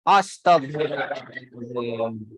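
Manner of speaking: slow, low exclamation of dismay; drawn-out, dropping exasperation; exasperated. Real, not acted. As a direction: let it sink wearily in mock despair. Teacher despairs at student's failed repetition.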